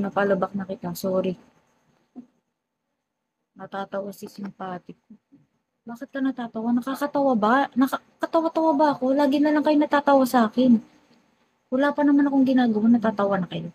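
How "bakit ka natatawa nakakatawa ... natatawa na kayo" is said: mock-offended host, higher and rising into a fast complaint. Real, not acted. Host teasing laughing viewers, mock offended and higher. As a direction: playfully demand why they keep laughing at you.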